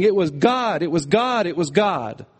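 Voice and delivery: "God" stressed each time, falling; emphatic repetition. Shown as a demonstration. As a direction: hammer "God" in every repeat, settling by the last. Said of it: "an emphatic way of saying".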